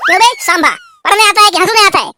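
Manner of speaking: fast, high rebuke; angry scolding. Acted. Principal rebuking Sambha for laughing, angry. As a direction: tell the student off sharply.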